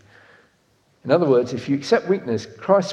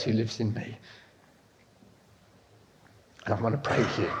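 gentle comforting words. Pretend. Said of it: "to say".

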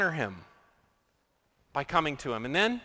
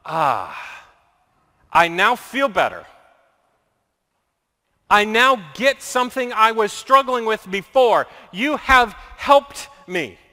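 satisfied Job; 3 dB louder than usual. Retold or imitated. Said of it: "some version of".

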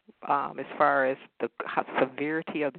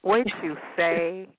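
ordinary talk, nothing marked

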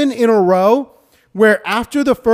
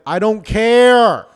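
annoyed; 5 dB louder, slower than usual. Retold or imitated. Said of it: "audibly been like".

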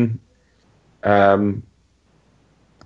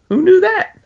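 high, squeaky, amazed "who knew"; mock amazement; 4 dB louder than usual. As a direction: squeal it in fake surprise.

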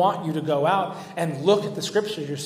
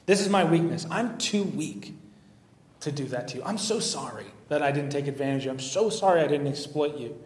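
a touch of mock sorrow, quieter; facetious apology; 3 dB quieter than usual. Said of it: "Obviously being very facetious".

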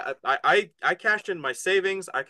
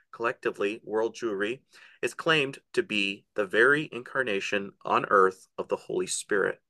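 reading aloud; 4 semitones lower than usual. Acted. Host reading a book snippet to listeners, measured read-aloud. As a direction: read the passage out deliberately, stretching weighty words.

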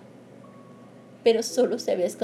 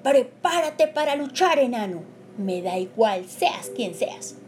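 slow, loud, higher dragon roar; 4 semitones higher, 5 dB louder, slower than usual. Acted. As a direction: roar it out slowly like a huge dragon. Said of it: "rugió el dragón".

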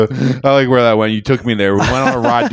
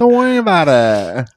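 mock brush-off; 4 dB louder than usual. Co-host mimics the woman's brush-off.

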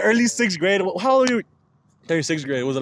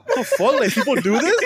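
higher-pitched, baffled questioning; retold disbelief; 4 semitones higher than usual. Telling friends what he thought as a boy, retold disbelief. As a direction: act out your own bafflement back then. Retelling his shocked first reaction.

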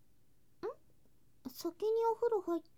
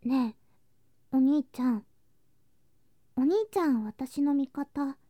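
pleading call; 7 dB louder than usual. Acted. Begging brother for support.

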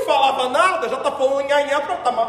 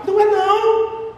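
higher, louder and slow denial; emphatic no; 7 semitones higher, 4 dB louder than usual. Real, not acted. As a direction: stamp it down: no it is not. Emphatic rebuttal. (negação enfática, alta e lenta)

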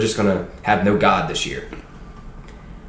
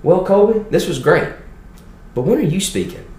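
put-on Southern Baptist old boy; 10 semitones higher than usual. Dean of students reassuring the scared kid, hammed-up high Southern voice. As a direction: play the hearty Southern dean, pitched way up. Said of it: "that dean of students walked to me and goes".

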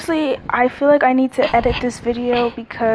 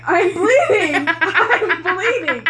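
whiny pleading; 7 semitones higher, much slower than usual. Retold or imitated. Mocking own pitiful plea to mom.

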